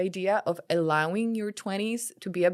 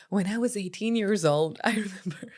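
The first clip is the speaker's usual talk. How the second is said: hushed storyteller. Retold or imitated. Mock-solemn start of a long story.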